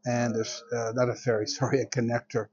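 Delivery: drowsy, slightly muddled speech; half asleep. Real, not acted. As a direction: talk as if barely awake. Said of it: "I'm still half asleep".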